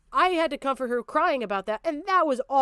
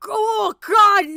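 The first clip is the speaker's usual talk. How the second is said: exasperated shout; 7 semitones higher, 8 dB louder than usual. Real, not acted. Angry rant at chat.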